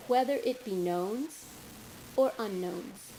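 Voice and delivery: deliberate verse reading, pausing at line breaks; poetry reading. Acted. Poet sharing her morning song poem, measured recital. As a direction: give each image its own phrase.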